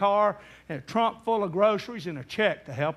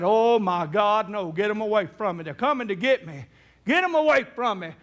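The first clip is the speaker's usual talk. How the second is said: rising higher and louder into panic; terrified scream; 7 semitones higher, 6 dB louder than usual. Retold or imitated. Dying grandpa screams at visions in fear. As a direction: scream in terror, burning up. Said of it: "he began to scream".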